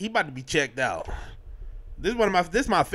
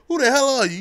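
loud, higher mock demand; mock yell; 9 semitones higher, 6 dB louder, faster than usual. Dad yelling at the dazed sheriff, mock shout. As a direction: shout the question at him. Dad confronts stranger again.

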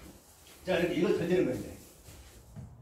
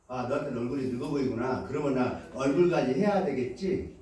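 calm reflective reply; 5 semitones lower than usual. Shown as a demonstration. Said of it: "그 말을 그대로 질문하면 돼요".

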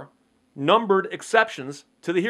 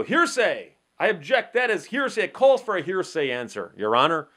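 objecting attorney; 2 semitones higher than usual. Retold or imitated. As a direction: jump up and object.

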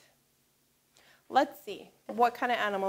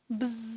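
soft bee buzz; 3 semitones lower, 8 dB quieter than usual. Shown as a demonstration. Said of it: "make a buzzing sound".

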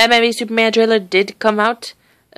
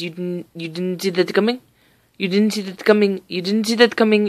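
lightly imitated European accent; practising a European-accented movie line; Pietro Maximoff accent. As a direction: quote the catchphrase in a put-on European accent. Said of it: "what Pietro Maximoff said".

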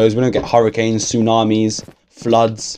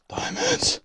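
a sudden high-pitched diamond craving; high squeal of delight; 11 dB quieter than usual. Real, not acted. Gamer alone in a cave longing for diamonds, high squeal.

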